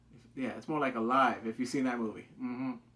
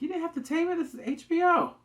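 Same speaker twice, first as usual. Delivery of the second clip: much higher, louder fan protest; excited teasing; 6 dB louder than usual. Real, not acted. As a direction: egg the show on.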